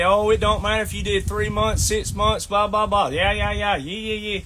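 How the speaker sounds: imitating veterans, brushing it off with blah blah and yeah yeah; a dismissive mock of what they say, trailing off at the end; mocking dismissive quote. Mocking veterans who dismiss his short service, dismissive. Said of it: "I've heard veterans out there say".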